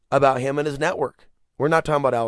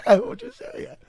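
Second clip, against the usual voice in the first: laughing mock threat. Mocking the shady lawyers' threat, high squeaky laugh. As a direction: squeal it through a laugh like a cartoon thug. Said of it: "telling people".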